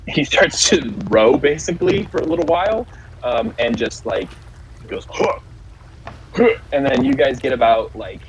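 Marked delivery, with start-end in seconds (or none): 5.1-6.5 short acted effort grunts; rowing grunts. Game master as portmaster rowing, effort grunts. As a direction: imitate heaving on the oars. Imitates portmaster starting to row.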